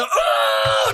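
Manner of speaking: hammed-up pained yelp; pained outburst. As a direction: break off into an imitated agonized groan. Reenacts the coach's pained outburst.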